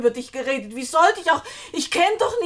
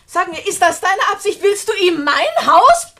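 angry demand; 2 semitones higher, 5 dB louder than usual. Acted. Julia accuses Edna of giving Frank her house, angrily. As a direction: demand it, voice rising in outrage.

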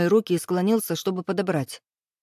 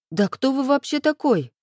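much higher, outraged question; indignant blurt; 7 semitones higher than usual. A narrator's reading. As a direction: fire it back in indignation. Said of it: "выпалила возмущённо".

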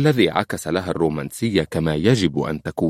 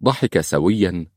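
ordinary talk

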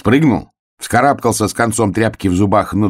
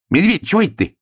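high-pitched amazed hare; squeaky surprised question; astonished; 14 semitones higher, faster than usual. A narrator's reading. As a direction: ask in high bewilderment. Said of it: "изумился заяц".

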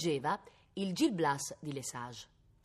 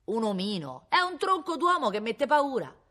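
incredulous protest; 8 semitones higher, 7 dB louder than usual. Acted. Constables correct the boy's description of the brigand, incredulous. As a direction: echo in disbelief, then louder and higher.

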